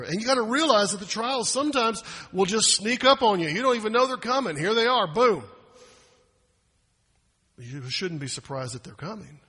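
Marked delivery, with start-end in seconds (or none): 0.0-5.4 louder emphasis. Acted. Trials sneak up, Boom.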